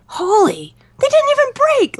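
imitating stunned surprise; astonished exclaim. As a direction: build to a shocked squeal. Quoting his amazed reaction.

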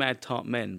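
"Men" said with an e, as plural; two words, "Tart Men", clear e in "Men". Shown as a demonstration. Correcting the host on the name, plural "Men".

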